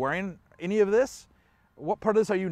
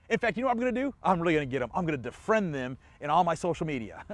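mock angry rant; 2 semitones higher than usual. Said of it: "maybe you're one that said".

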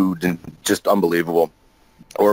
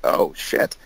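whispered oh shit; inner panic. Retold or imitated. Realizing he has the secret scripts, a whispered curse. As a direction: breathe it out unvoiced in alarm. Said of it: "and I think".

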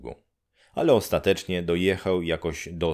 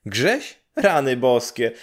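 high, loud cry of recognition; startled cry; 6 semitones higher, 4 dB louder than usual. Acted. Neighbour woman recognising Grześ, crying out high and loud. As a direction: gasp out his name in shock. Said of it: "zawołała baba".

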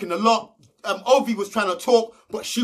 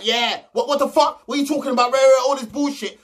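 a retold angry rant, pitched up; mock angry Marvin; 5 semitones higher than usual. Retelling Marvin's rant at the girls, mock outraged. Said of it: "Marvin was going back and forth".

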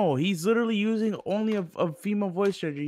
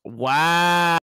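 loud, long-held wow; loud mock offence; 7 dB louder than usual. Real, not acted. Friend told he cannot use the app, loudly affronted. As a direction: draw it out loudly in protest.

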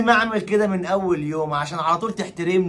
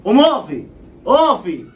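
angry command; 5 dB louder than usual. Acted. Husband orders wife to stand.

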